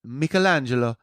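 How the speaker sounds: slow mock Italian accent; hammy Italian accent. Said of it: "that was meant to be my best Italian, accent".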